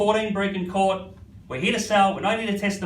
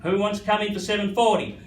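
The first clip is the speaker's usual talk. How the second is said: rhythmic auction bid calling; auctioneer calling; 3 semitones higher than usual. Real, not acted. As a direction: keep the bids rolling.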